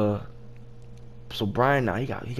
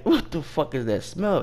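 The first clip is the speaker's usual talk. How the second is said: higher-pitched mock irritation; retold annoyance; 6 semitones higher than usual. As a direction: ask it as an annoyed customer, retold. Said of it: "He getting mad".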